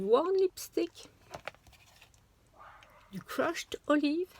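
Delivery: noms anglais en accent anglais appuyé, lents; English accent. Shown as a demonstration. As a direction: prononcer à l'anglaise, posément. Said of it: "Vous avez vu mon accent?". (accent anglais exagéré pour les couleurs)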